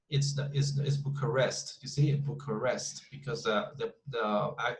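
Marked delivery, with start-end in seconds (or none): 1.0-3.0 Bucharest with the weight on REST; stress on last syllable. Shown as a demonstration. Teacher showing where the stress mark goes, final syllable stressed. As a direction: say "Bucharest" as boo-kuh-REST. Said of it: "stress mark goes here".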